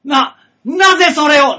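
loud, stammering, high; mock shock. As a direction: play the exposed culprit.

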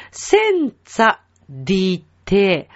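"センツァディテ" slowly, word by word; careful Italian demonstration. Shown as a demonstration. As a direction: stretch and separate "センツァ" and "ディテ". Teacher demonstrates Italian lyric.

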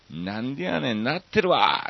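mock-angry Kansai tsukkomi, rising in pitch; 怒り気味のツッコミ. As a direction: snap back as an exasperated parent would. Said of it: "これはもう怒ってるみたいな". (怒ったふりで突っ込む)

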